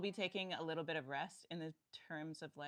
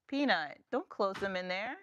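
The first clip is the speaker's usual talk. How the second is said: calling out; 4 semitones higher, 11 dB louder than usual. Real, not acted. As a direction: call across the room. Mom calling out to child.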